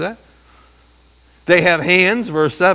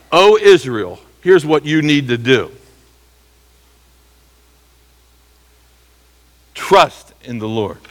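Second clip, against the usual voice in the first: worship leader call; 4 dB louder than usual. Retold or imitated. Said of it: "the worship leader says this".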